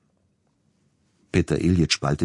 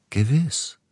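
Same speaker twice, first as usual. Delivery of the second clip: lightly lifted, much higher "Gewiss"; gentle; 10 semitones higher than usual. A narrator's reading. Agent answering the hissing composer, gentle. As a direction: gently affirm in a high, rising lilt. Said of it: "erwiderte Siegfried sanft".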